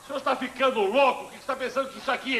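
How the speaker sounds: scolding sergeant's sharp question; indignant reprimand. Acted. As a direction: raise the voice on the repeated question. Sergeant repeats reprimand, louder.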